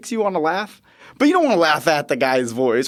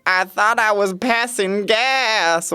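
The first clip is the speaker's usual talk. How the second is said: higher, slow patient voice; patient's voice; 7 semitones higher, much slower than usual. Retold or imitated. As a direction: plead it like the sheepish patient. Patient explaining.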